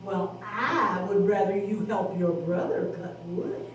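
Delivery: firm but gentle, like a mother; Mama Pig. Acted. Mama Pig insists the sons help their brother. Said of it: "said Mama Pig".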